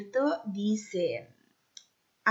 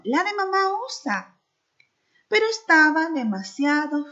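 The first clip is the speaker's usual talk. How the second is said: put-on lively read-aloud for children; storybook narration; 4 dB louder than usual. A narrator's reading. Teacher reading a story to her class, lively. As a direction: tell the tale to the class with expression.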